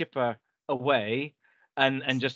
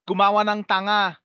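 mock angry exclaim; 5 semitones higher, 4 dB louder than usual. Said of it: "exclaimed, in Filipino".

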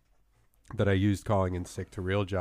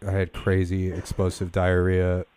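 fake sick voice. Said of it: "my fake sick voice".

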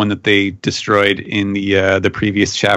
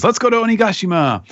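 rallying cry; 12 semitones higher, faster than usual. Retold or imitated. Luffy voiced rallying the crew.

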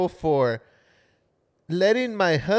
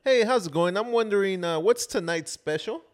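white voice; faster than usual. Shown as a demonstration. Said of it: "All right, let me try".

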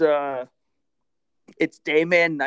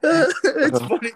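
mock drawl; 13 semitones higher, 10 dB louder, much slower than usual. Slow mock drawl laughing.

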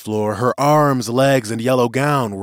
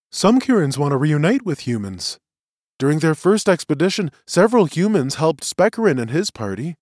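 higher-pitched, earnest prisoner testifying; earnest witness; 6 semitones higher than usual. Acted. Prisoner explains himself to the tribunal, earnest. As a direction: plead the case for humans.

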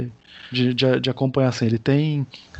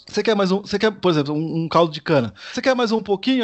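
mock offering voice; 5 semitones higher than usual. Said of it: "dá uma forçadinha na voz".

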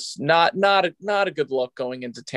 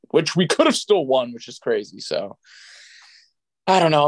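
out of breath. Real, not acted. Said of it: "I'm out of breath".

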